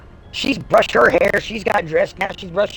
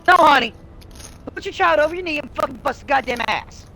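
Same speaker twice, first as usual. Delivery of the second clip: emphatic scolding; 9 semitones higher than usual. Real, not acted. Scolding such parents directly.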